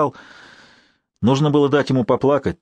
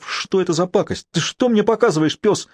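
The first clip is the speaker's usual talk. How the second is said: stifled cry; 7 semitones higher than usual. A narrator's reading. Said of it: "сдавленно вскрикнул Святослав".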